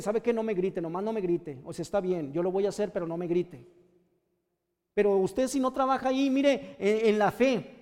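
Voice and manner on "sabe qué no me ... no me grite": calm, firm boundary-setting without shouting; measured, steady insistence; firm, controlled. Shown as a demonstration. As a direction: stand your ground evenly, voice settling down. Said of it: "sí, así, firmes, nomás decirle".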